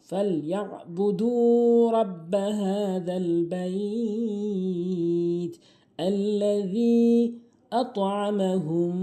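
slow melodic tilawat; Quran recitation. Shown as a demonstration. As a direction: chant each verse slowly and evenly. Recites Sura Quraish. (ধীরে সুর করে কুরআন তেলাওয়াত)

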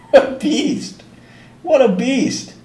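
high, amused doting coo. Real, not acted. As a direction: marvel playfully at the kitty. Teasing the cat, amused.

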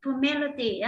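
Formality with an uh sound, not an o, stress on MA; teacher's pronunciation model. Shown as a demonstration. Teacher shows students how to say Formality. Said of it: "nó lại thành âm ơ chứ không phải âm o".

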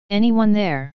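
a hint of a tiny trapped rat calling for help; small rat calling. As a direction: call out hopefully from behind the furniture. Trapped rat calls from behind dresser.

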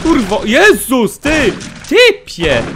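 high, loud swearing at an attacker; startled angry yell. Real, not acted. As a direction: yell at the guy who startled you. Yelling at an enemy after fright. (wysoki krzyk oburzenia)

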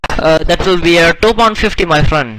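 lightly put-on scammer voice; scammer shopkeeper. Shopkeeper quotes a customer the price, mock scammer voice. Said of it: "the Microsoft Scammer Dave".

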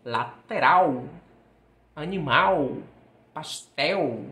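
"lateral" com L final soando U, "lateráu"; lateral em português. Shown as a demonstration. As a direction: feche "lateral" com som de U. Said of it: "Com som de U". ("lateral" à brasileira, final em U)

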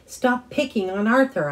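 high, loud defiant yell. A narrator's reading. Son yelling at mom to defend Arthur, high and loud. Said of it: "I yelled".

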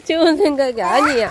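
웃음 섞인 큰 소리; 웃음 참으며 크게 말하기; 웃으며 말하기. Real, not acted. 물장난 중 웃으며 말함. (웃으면서)

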